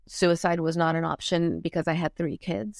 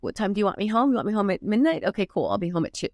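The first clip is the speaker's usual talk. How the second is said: mock-sweet questions rising higher, then a flat payoff; sarcastic attitude; 3 semitones higher, faster than usual. Rebellious daughter mocking her parents' curfew, sarcastic. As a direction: needle them with fake politeness. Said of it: "that's literally what my attitude was".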